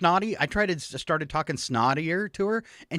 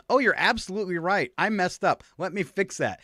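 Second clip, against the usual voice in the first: higher mock AI girl voice; snotty young assistant; 5 semitones higher than usual. New Alexa owns up to the user, lightly mimicked snotty girl voice. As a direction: lightly imitate a snotty twenty-something assistant. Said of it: "like a snotty twenty-something girl talking".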